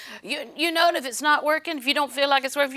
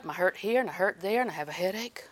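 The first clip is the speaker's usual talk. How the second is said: softer, lower, imitating a whiny complainer; mock complaining; 4 semitones lower, 7 dB quieter, faster than usual. Preacher mocking a sufferer's complaints, softly. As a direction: mumble your aches like a self-pitying patient.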